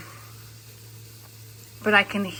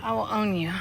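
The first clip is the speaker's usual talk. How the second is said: mock threat; 3 dB quieter than usual. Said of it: "I'm just kidding".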